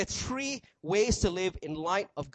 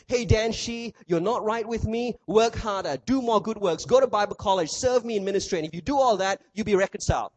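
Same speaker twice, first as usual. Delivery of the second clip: louder, pushy list of demands; demanding taskmaster; 3 semitones higher, 4 dB louder than usual. Pretend. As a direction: bark the orders like a hard boss. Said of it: "He doesn't say to you".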